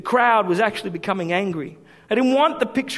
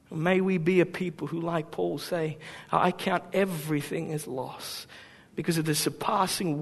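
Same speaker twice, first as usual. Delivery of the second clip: hushed scripture reading. Real, not acted. Preacher closes with Paul's words, hushed reverent reading.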